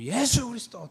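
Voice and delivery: high, loud rallying cry; imitated crowd shout. Youths answering how the young are renewed, high imitated shout. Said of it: "또 이렇게 외치죠".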